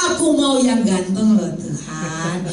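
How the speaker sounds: slow, giggling plea; laughing request. Retold or imitated. Preacher joking to God she wants a handsome husband, laughing slowly. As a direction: drag it out with a laugh.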